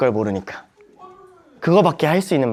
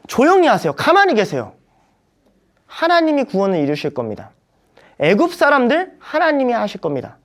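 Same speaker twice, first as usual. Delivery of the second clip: firm calming command; 6 semitones higher than usual. Retold or imitated. Moses hushing the fearful people, firm and raised. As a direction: hush the crowd with confident authority. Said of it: "이렇게 얘기한 거예요".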